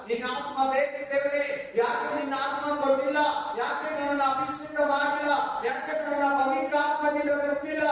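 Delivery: imitating an insistent, anguished prayer; re-enacted tearful plea. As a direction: cry out to God as if reliving desperation. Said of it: "ಬರೋ ಅಂತ ಅಳ್ತಾ ಇದ್ದೀನಿ".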